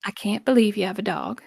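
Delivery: light, gentle Southern accent; just a soft touch of Southern; demonstrated mild Southern lilt. Shown as a demonstration. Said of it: "would be soft".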